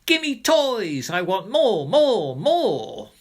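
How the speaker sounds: put-on very high, loud greedy child's scream; screaming demand.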